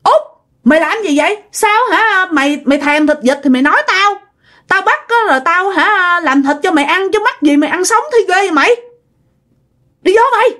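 high-pitched, alarmed telling-off; acted scolding. Second uncle scolding Út for eating ducks raw, high-pitched acted scolding. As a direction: scold him in disbelief, pitch climbing. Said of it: "ổng la như vậy".

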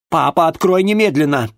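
loud, high insistence on немедленно; demanding. Acted. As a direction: order father to open now. Daughter demands father open.

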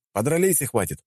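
разнимающий окрик. Acted. Разнимает драку.

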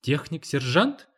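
slow, puzzled echo of техник-сержант; техник-сержант drawn out as a question; questioning repeat. A narrator's reading. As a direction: query техник-сержант slowly, voice lifting at the end. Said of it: "переспросила мать".

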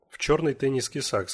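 ordinary delivery

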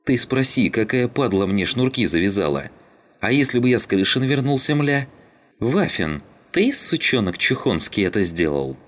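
high, agitated complaint; angry accusation. A narrator's reading. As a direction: lash out at whoever tripped you. Injured man accuses crewmates in quarrel. (возмущённо, высоким голосом)

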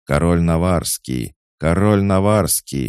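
loud high yell, building on the repeat. A narrator's reading. Sentries report the fleeing King of Navarre, yelling. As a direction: yell it out to the whole yard. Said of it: "орали часовые".

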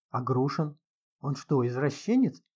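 ordinary delivery, nothing marked

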